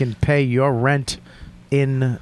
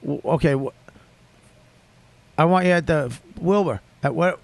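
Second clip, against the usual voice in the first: fake stammer. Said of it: "dramatic pause and a stammer".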